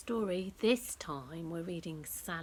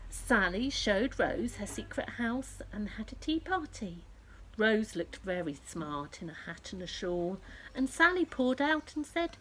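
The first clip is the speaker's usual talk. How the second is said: gentle storybook narration; reading to children; 3 semitones higher than usual. A narrator's reading.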